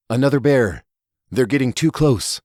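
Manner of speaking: lightly voiced village elder woman; Elder Mary. Elder Mary finding the bear damage, lightly voiced. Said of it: "And that was Elder Mary".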